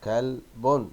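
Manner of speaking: "كلب" with a clear -un ending; tanween damma ending. Shown as a demonstration. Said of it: "لاحظ وانطق التنوين".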